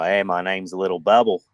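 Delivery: bad Aussie accent. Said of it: "You guys suck at the Aussie accent".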